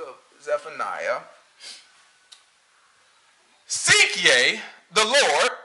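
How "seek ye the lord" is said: very slow, drawn-out pulpit reading; mock preacher intonation. Mocking a pastor reading scripture, very slow and solemn. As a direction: stretch every word like a preacher on stage. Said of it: "Why are you talking like that on stage?".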